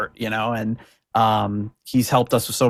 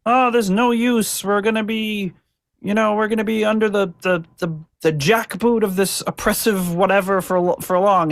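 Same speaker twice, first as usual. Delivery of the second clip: mock despair; 8 semitones higher than usual. Host voices the downtrodden crowd, mock despairing lament. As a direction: wail hopelessly like a downtrodden crowd. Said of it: "the shouting despair of the crowd".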